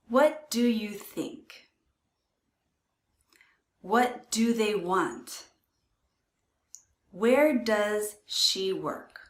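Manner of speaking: each word slow and clear; careful, deliberate model phrases; slow, clear teacher model; said slowly. Shown as a demonstration. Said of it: "When we say them slowly".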